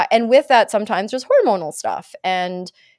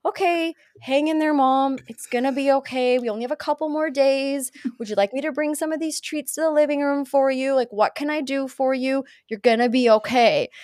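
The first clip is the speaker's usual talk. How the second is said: put-on lightly higher, gentle caring boy; son reassuring mom; 4 semitones higher than usual. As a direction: soothe her like a kind son. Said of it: "he's like".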